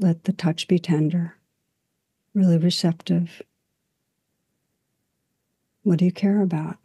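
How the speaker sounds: calm guided reflection, long unhurried pauses; guided meditation. Real, not acted. Teacher guiding listeners into stillness and breath, calm meditation voice. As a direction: gently lead listeners inward, leaving space after each phrase.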